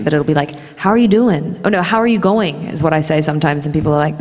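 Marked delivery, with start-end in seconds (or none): 0.8-1.6 "How are you doing?" in an American accent, pitched up; American-accented casual greeting. Shown as a demonstration. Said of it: "it'll be in an American accent". 1.8-2.6 "How are you going?" in an American accent; American-accented Kiwi greeting; New Zealand idiom delivered in American. Shown as a demonstration. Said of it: "it'll be in an American accent".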